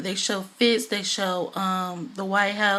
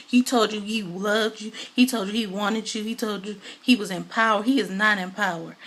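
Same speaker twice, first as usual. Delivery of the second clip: mildly impassioned retold lecture; powerful monologue. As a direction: act out a dressing-down with some force. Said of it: "going through this powerful monologue".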